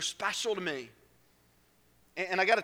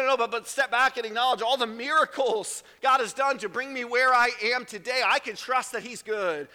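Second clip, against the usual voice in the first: higher, louder fervent preaching; 6 semitones higher, 4 dB louder than usual. Real, not acted. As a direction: preach it with conviction. Preaching at full force.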